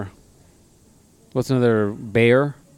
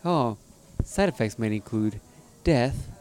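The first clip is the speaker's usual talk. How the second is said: mock cheerful drug ad read; sweet announcer voice listing grim side effects; friendly ad voice; 3 dB quieter than usual. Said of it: "When you said it in the friendly voice".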